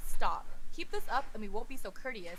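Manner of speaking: loud, commanding stop; loud stern order; stern warning. Acted. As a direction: bark a firm threat. Threatening the enemy.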